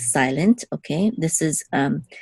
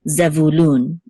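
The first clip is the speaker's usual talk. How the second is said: "Zevulun" stressed on the final lun; 3 dB louder, slower than usual. Shown as a demonstration. Teacher reading the whole name, stress on LUN. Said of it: "The accent is on Lun".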